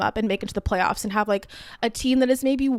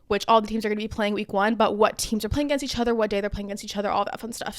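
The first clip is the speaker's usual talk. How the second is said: running out of breath; breathless after talking fast; faster than usual. Real, not acted. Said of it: "I'm out of breath".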